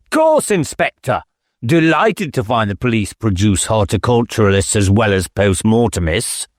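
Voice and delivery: a touch of a snobbish squire's sneer. Acted.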